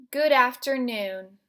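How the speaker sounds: strong, loud good afternoon; loud intense greeting. Shown as a demonstration. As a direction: project it with intensity. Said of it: "using that vocal intensity".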